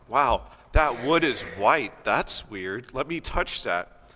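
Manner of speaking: lightly voiced kid in slow wonder; a hint of a naive, wondering kid; curious little kid. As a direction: imitate a fascinated child, drawing the words out. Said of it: "When I was a kid".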